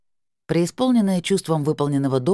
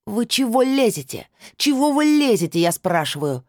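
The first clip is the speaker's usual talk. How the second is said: high, louder shriek of outrage; yelling; 8 semitones higher, 4 dB louder than usual. A narrator's reading. Stranger yells at the neighbour to stop prying, shrill yelling. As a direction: scream at the nosy neighbour. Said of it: "заорала женщина".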